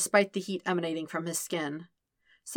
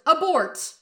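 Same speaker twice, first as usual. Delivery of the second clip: higher, louder frantic yell; panicked yell; 11 semitones higher, 7 dB louder than usual. Acted. Sokka panics at his own thought.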